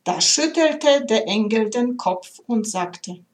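measured storytelling read with gentle pauses; heartfelt recital of a story poem. A narrator's reading. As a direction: read it like a tender fable. Reads a poem aloud.

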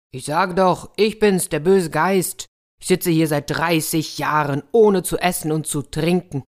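insistent spirit, a touch forceful; lightly voiced evil spirit. Captive evil spirit tells the soldier who it is, mildly insistent. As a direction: press the point as a captive spirit.

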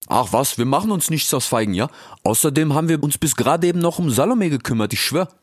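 high, cheeky youth voice; Ilias. Acted. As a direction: call out playfully, very high. Brothers voiced. (frecher Ilias, hoch und laut gerufen)

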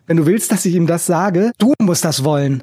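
ordinary delivery

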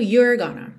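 you're gonna with a curled American R; American you're gonna, R rolled; American accent. Shown as a demonstration. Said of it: "Se você tiver cantando com sotaque mais americano".

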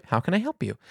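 mimicked soft, sweet offer of help; friendly greeting. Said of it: "in this friendly".

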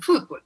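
"fútbol" stressed on FÚT, as Argentines say it; Argentine-style stress. Shown as a demonstration. Guest imitates how Argentines say it, "fútbol" stressed on FÚT. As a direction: punch FÚT and let "bol" drop in "fútbol". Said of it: "como los argentinos".

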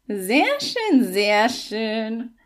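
a hint of a pleased toad, lightly voiced. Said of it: "Die Unke klang erfreut".

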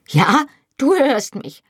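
high-pitched hysterical outburst; shrieking. A narrator's reading. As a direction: shriek it back at him. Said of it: "kreischte ich".

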